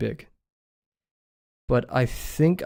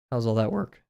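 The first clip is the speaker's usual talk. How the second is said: voice crack; 2 semitones lower than usual. Real, not acted. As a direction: voice cracking mid-question. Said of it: "Oof, voice crack".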